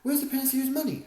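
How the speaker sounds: loud, high demanding shout. A narrator's reading. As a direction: demand an answer over the crowd. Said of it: "another demanded".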